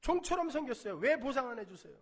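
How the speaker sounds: loud, high mock grievance; resentful complaint. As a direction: press the demand again, indignant. Elder son's complaint repeated. (큰아들이 아버지께 보상을 요구하며 높고 크게 따지듯)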